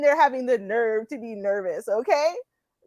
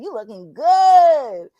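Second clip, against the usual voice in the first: reading viewer comment; 6 dB louder, much slower than usual. Retold or imitated. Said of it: "He said".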